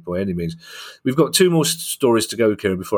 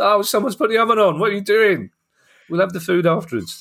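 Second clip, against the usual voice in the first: high, flustered mock voice; mock panicked staff; 12 semitones higher than usual. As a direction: squeal it like a frantic caterer. Mock panicked stadium catering staff.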